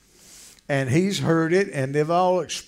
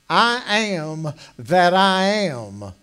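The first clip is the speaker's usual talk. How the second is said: very slow, louder pronouncement; solemn divine declaration; 2 semitones higher, 5 dB louder, much slower than usual. Acted. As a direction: give each word weight as God's own name. God declares his name to Moses.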